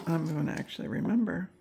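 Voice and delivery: hiccuping between words; hiccups. Real, not acted. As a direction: speak through real hiccups. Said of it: "I have the hiccups".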